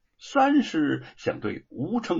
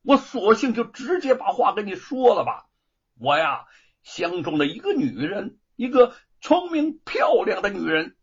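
steeling himself; 5 semitones higher, 4 dB louder than usual. Acted. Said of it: "姚老大一狠心".

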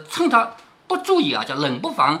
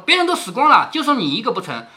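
scolding; 2 semitones higher than usual. Acted. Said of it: "他就继续骂".

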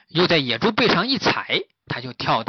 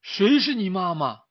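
higher-pitched, stunned query; baffled question; 6 semitones higher than usual. Acted. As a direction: turn round and ask in astonishment. 两人吃惊地回头问. (惊讶地高声反问)

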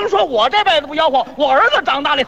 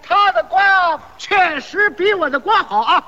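slow, stretched hawker's pitch; mock vendor's praise; 3 semitones higher than usual. Seller recommending his rival over himself, slow mock vendor's cry. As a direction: proclaim it slowly to the passers-by. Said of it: "就这么夸".

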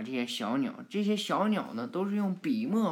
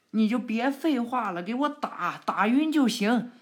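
higher, louder bark of orders; impatient shout; 6 semitones higher, 4 dB louder than usual. Acted. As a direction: commandeer hem ongeduldig. Lutai shouts orders in battle.

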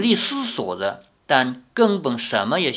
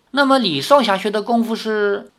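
suspicious; 6 semitones higher than usual. Acted. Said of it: "老妇狐疑地看着他".

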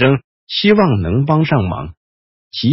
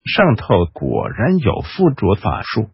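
hissing; 4 semitones lower than usual. Acted. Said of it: "嘶声道".

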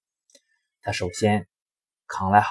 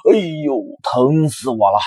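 louder ouch of pain; wolf yelping in pain; 3 semitones higher, 6 dB louder than usual. Acted. Wolf hurt from ramming the brick house, yelping in pain. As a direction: cry out after the bump.

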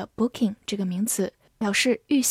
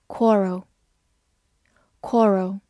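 slow, clear vocabulary drill; slow drawn-out; much slower than usual. Shown as a demonstration. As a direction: stretch each syllable slowly. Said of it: "vocabulary review read-out".

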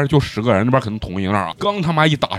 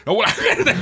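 ordinary talk, nothing marked

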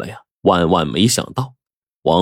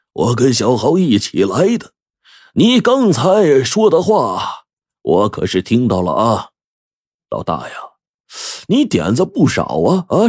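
lightly voiced old father, drawing words out; reproving old patriarch. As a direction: chide your son with a hint of an old man's voice. 老爷子训斥儿子. (略带老人腔地拖长声训斥)

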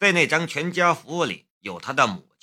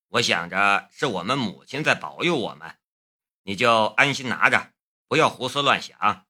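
lightly voiced brother, a little lower; explaining older brother; 4 semitones lower than usual. Brother explaining the money to his sister, lightly voiced. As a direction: reassure her in an understated lower voice.

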